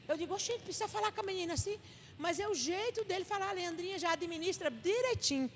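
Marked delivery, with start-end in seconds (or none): 0.3-1.8 mock disbelief. Voicing her reaction to gruff talk.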